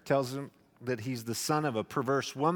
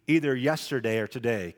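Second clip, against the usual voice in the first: stern king. Acted. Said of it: "I can just hear the sternness in his voice".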